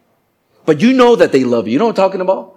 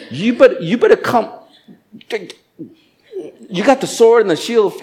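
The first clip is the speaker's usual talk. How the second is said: battle call; 8 semitones higher than usual. Acted. Calling out, battle ready.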